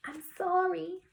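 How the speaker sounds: put-on high little-girl apology; apologetic child. Child Harriet apologises in the story.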